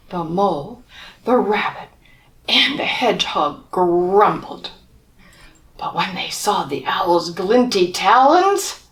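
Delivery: put-on lively read-aloud for children; storybook reading. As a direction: tell it like a bedtime picture book. Reading picture book to children.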